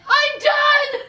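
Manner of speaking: high-pitched mock cry of being fed up; exasperated outburst. Girlfriend ending the argument, exasperated outburst. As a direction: imitate a dramatic quitting shout. Acted breakup before she cries.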